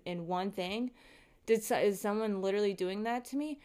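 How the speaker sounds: agitated retold panic, rattling off questions; retold freak-out. Vlogger retells wondering who moved the contact, freaking out. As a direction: spiral through frantic questions, mildly worked up. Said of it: "I started freaking out".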